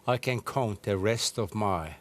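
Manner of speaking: gently, slowly and a little low; a measured, low-pitched retelling of gentle words; retold gentle remark. Guest recalls his dying years to the host, retold gentle remark. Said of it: "I said very gentle".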